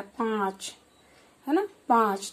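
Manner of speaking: पाँच said lightly through nose and mouth, vowel held long; soft nasal paanch. Shown as a demonstration. Teacher to children: पाँच gently nasalised and drawn out. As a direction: let पाँच hum softly through the nose. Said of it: "इसका जो उच्चारण होगा वो हल्का होगा".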